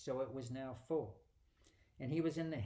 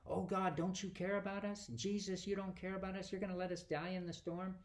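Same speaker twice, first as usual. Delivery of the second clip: higher-pitched, half-hearted pleading; a light imitation of scared sailors begging; mock panicked disciple; 4 semitones higher than usual. Preacher voicing the frightened disciples, a mild mock plea.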